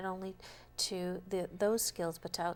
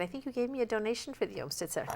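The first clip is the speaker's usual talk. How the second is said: teasing; 3 semitones higher, faster than usual. Pretend. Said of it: "just teasing".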